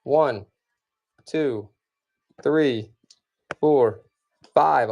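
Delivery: building auction count to close the lot; auction countdown. Real, not acted. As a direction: call the lots out like an auctioneer.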